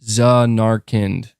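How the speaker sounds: Zanarkand slowly, stress on NARK, ending in "kind"; careful, slow "Zanarkand", za-NARK-ind; trying out pronunciation. Shown as a demonstration. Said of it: "am I saying it right".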